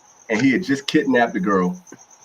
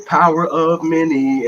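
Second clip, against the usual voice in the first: drawn-out, higher-pitched mock chant; mock ritual yell; 6 semitones higher, 3 dB louder, slower than usual. Host imitating witches yelling in the forest, mock ritual yell. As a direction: imitate witches yelling out their slogan, slowly. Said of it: "literally yelling in the forest like that".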